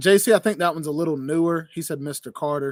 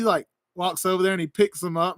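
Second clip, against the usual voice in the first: ordinary talk, nothing marked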